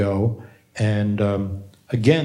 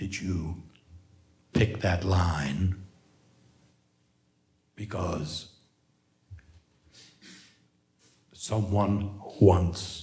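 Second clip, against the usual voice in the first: deepest, low, hushed menacing voice, drawn out; 4 semitones lower, 7 dB quieter than usual. Retelling what you'd ask someone at a table who picked a line, mock-threatening deepest voice. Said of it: "in my deepest, most threatening voice".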